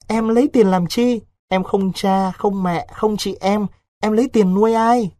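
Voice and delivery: put-on high-pitched, plaintive young woman; protesting orphan girl. Vịnh, with no parents or sisters, refuses Đối's money, plaintive.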